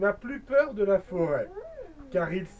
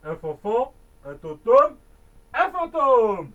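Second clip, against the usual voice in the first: stammering fright; 7 dB louder than usual. Acted.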